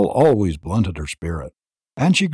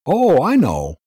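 lightly mocking, higher; taunting; 7 semitones higher, 4 dB louder than usual. A narrator's reading. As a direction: needle him with a mild taunt. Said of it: "went on Venters tauntingly".

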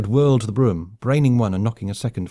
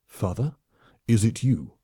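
lightly voiced alien, hushed. A hint of the alien warrior asking for his father, hushed. Suruk softly.

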